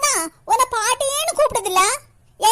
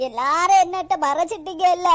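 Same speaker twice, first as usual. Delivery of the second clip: tearful, wounded accusation; hammed-up sobbing reproach; crying; 3 semitones lower than usual. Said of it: "எதுக்கு அவங்க அழுதுகிட்டே இருக்காங்க?". (அழுகையோடு குற்றம் சாட்டுவது)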